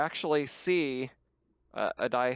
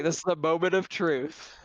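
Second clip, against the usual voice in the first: higher, mock-dramatic proclamation; dramatic declaration; 4 semitones higher, 4 dB louder than usual. Game master voicing the big pilot roll, dramatic. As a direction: announce it like a big movie moment.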